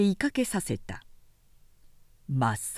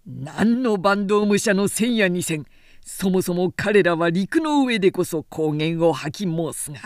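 lightly voiced proud samurai, a bit louder; boastful warrior; 3 dB louder than usual. Kagekiyo mocks the Genji before Tomomori, mild boast. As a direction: scoff at the eastern soldiers, lightly acted.

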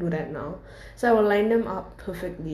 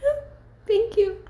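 smiling through pain. Retold or imitated. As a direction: thank them through a pained smile. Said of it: "I smiled through the pain".

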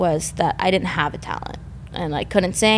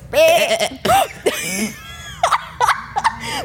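goat bleat attempt; 11 semitones higher than usual. Shown as a demonstration. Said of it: "That was it".

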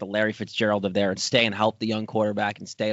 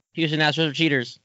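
usual speaking voice

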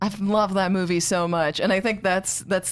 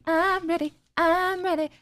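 mock eager; 10 semitones higher than usual. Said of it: "I am ready".

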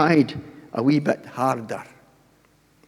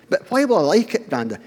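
grandson's voice; 5 semitones higher, faster than usual. Retold or imitated. Grandson voiced in family story.

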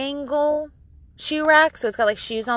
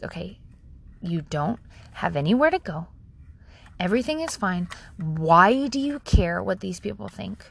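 low-key, measured reassurance; understated, steadying inner voice; calm self-talk; 3 semitones lower than usual. Retold or imitated. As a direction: talk yourself down calmly. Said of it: "I just calmed down".

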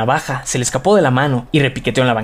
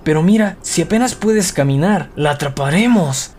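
panting; 3 semitones higher than usual. Acted. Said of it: "jadeó Henry".

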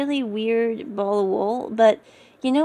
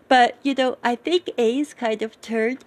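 words stretched by a yawn; 3 dB louder than usual. Real, not acted. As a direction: talk through a yawn. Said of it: "sorry, yawning here".

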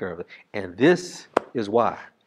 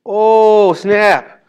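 high, loud mock surprise; playful gasp of surprise; oh snap; 10 semitones higher, 10 dB louder than usual. Real, not acted. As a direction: exclaim like you just caught something. Preacher's exclamation.

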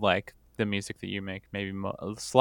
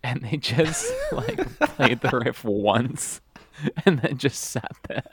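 laughing; 3 semitones higher than usual. Real, not acted. Laughing imagining band.

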